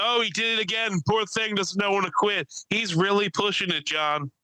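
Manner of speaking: high, prissy onlooker impression; tut-tut like a fussy old bystander; high mock voice clucking over the fallen guy; mock gossiping onlooker. Mocking onlooker voice in story.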